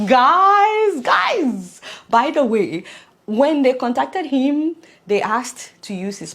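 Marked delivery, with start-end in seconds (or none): 0.1-1.8 loud, high call to the viewers that then settles. Real, not acted. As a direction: grab the audience's attention. Calling out to viewers.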